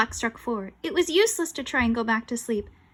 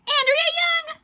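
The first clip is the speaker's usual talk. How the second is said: very high, loud cry of the name; horrified exclamation; 6 dB louder, slower than usual. Acted. Boy realises who the ghost is, horrified cry. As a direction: shriek the name in horror.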